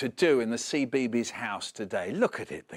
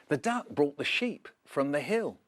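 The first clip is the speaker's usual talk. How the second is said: plain reading voice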